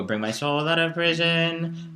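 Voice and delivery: free spoken chant, slowed; free-rhythm verse; talking pace. Shown as a demonstration. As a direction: chant it like speech. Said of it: "So we would go".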